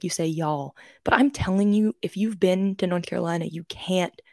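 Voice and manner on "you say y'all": whispered teasing parents; mocking parents. Parents teasing her for saying y'all, whispered mockery. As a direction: hush it like parents ribbing her. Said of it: "my parents always make fun of me".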